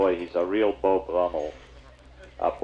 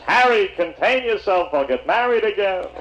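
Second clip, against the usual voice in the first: exasperated husband; 12 semitones higher, 4 dB louder than usual. Acted. Husband to the wailing lover at the funeral, loudly exasperated.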